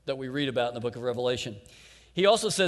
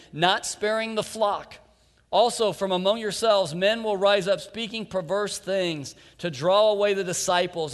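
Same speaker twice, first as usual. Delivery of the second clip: raised, ringing preacher's reading of scripture; 4 semitones higher, 4 dB louder than usual. Acted. Preacher reads scripture warning of false prophets, raised and ringing. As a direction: proclaim the warning to the congregation.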